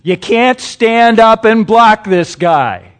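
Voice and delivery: loud, high barking coach; coach's scolding. Retold or imitated. Coach chewing out a lineman at practice, loud and high. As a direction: bark it like a fed-up football coach. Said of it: "that's usually how they say it".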